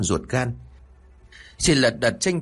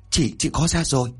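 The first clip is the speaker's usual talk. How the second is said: stammering; 4 semitones higher than usual. A narrator's reading. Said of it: "Chị Bảy ú ớ".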